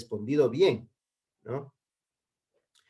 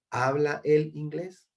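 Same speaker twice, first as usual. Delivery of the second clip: "¿Habla él inglés?" slowly lifted into a question; teacher's demonstrated asking tune on "¿Habla él inglés?"; question intonation; 3 semitones higher, slower than usual. Shown as a demonstration. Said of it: "Recuerden siempre cambiar el tono".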